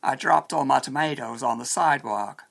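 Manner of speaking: American pronunciation of "tomatoes"; American accent. Shown as a demonstration. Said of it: "An American might say".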